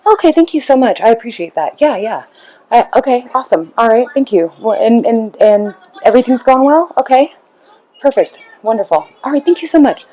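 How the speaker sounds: a mom forcing thanks through shock; a hint of brittle, embarrassed gratitude; flustered fake politeness. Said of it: "dumbfounded, shocked, pissed, offended, embarrassed".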